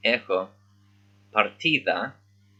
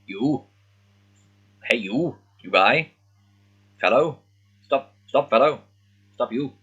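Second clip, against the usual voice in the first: hey-you calls, louder and higher; calling out; 4 semitones higher, 4 dB louder than usual. Retold or imitated. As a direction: stop a stranger in the street. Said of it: "is like".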